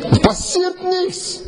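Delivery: high squeaky voice, slowed right down; high mock wail. Preacher mimics the helpless rowers, high and slow. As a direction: squeak it out in despair, slowly.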